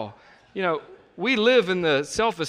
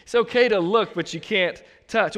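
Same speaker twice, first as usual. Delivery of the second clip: mock casual excuse, raised higher; mocking married men; 5 semitones higher, 4 dB louder than usual. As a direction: parrot their lame excuse. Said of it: "I've heard this so many times".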